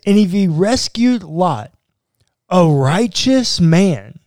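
scripture reading. A narrator's reading. Podcast host reading Second Peter to co-host, deliberate reading. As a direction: read the verse out with measured emphasis.

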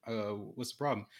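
soft halting stutter; imitating a stuttering boy. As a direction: stumble over the words like a nervous kid. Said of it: "he still has a stuttering problem".

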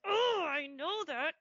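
loud, high, slow sarcastic oh; slow sarcastic I know that; exasperated retort. Retold or imitated. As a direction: roll your eyes at the trainer. Annoyed reply to trainer.

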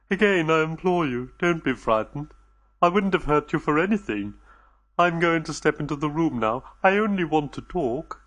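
anxious, gentle alien voice; lightly voiced anxious alien reassuring the visitors; nervous alien host. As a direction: soothe the frightened guests, a little on edge. Alien host speaks to captives.

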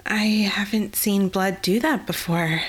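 weak, slow whisper, barely voiced; dazed near-whisper after the blood; faint whisper. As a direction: breathe it out as if about to faint. Eliath faint after seeing blood.

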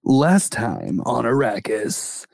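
slow TV "previously on" intro; dramatic recap announcer. Pretend. Co-host recapping on cue, dramatic announcer.

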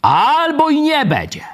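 high, slow, drawn-out mock prophecy; mocking a prophet. Teacher mocks a Pentecostal prophet for students, slow and high. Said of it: "jeśli jakiś zielonoświątkowiec mówi".

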